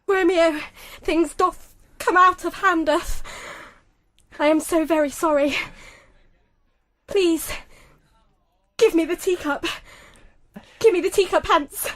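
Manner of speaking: lightly voiced Shakespearean lament; understated tragic stage voice; ailing king. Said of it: "So Shakespearean style".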